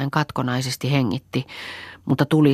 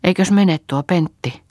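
higher, louder alarmed question; startled; 5 semitones higher, 5 dB louder than usual. A narrator's reading. Saara seeing Pentti leave, startled cry. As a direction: gasp it out in alarm. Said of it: "säikähtäen virkkoi".

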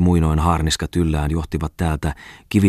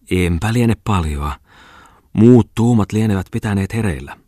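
sleepy man; 4 semitones higher, 5 dB louder than usual. A narrator's reading. Sleepy man answering teasing woman.

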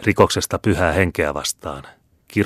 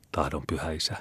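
much softer, trembling submission; 11 dB quieter than usual. A narrator's reading. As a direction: give in, shaking with fear. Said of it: "vastasi vanki vapisten". (vapiseva vastaus)

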